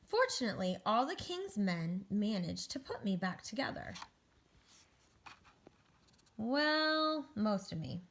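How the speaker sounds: animated, measured storybook reading; picture-book narration. Acted. Egg tells children about a great fall, storybook narration. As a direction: read to children with lifted key words.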